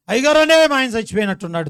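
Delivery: fast, high, loud imitated cry; mock panic. Wife phoning pastor about late husband, mock panicked rush. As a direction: blurt it out in mock alarm.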